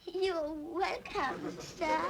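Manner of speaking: slow, drawn-out kindly reply; gently stretched courteous answer. Acted. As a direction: answer politely and unhurriedly, as in a recited rhyme. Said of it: "She answered kindly".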